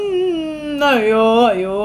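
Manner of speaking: sobbing ayyo ayyo; crying. Acted. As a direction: break into sobs on each ayyo. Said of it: "ശ്രുതി കരയുന്നു".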